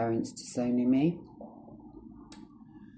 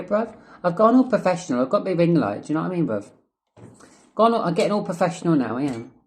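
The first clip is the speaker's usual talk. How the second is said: higher and louder, fed up with the sirens; annoyed outburst; 5 semitones higher, 6 dB louder than usual. Real, not acted. Vlogger yelling at passing sirens, annoyed and loud. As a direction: rant at the noise outside, fast and loud. Sirens interrupting his video.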